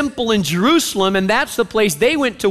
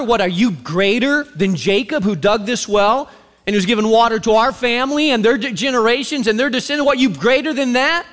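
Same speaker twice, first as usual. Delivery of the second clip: attitude. Retold or imitated. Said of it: "She's got an attitude".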